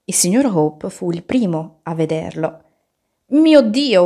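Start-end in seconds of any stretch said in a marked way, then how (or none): 3.3-4.0 loud, high cry of alarm; high, loud storybook exclamation; startled cry. A narrator's reading. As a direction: cry out in sudden shock. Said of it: "urlò e lasciò cadere il toast".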